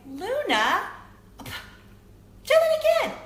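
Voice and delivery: high, drawn-out amazed call to her daughter; excited call. Retold or imitated. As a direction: stretch it out in delighted disbelief. Excited mom calling daughter.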